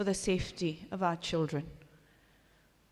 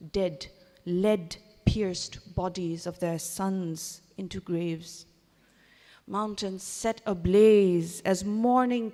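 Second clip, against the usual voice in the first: measured poem recital, drawn-out line endings, building louder; solemn spoken verse with weighted pauses; poetry reading; 3 dB louder than usual. Acted. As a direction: recite a lament poem, measured at first, swelling in force. Reads out own poem.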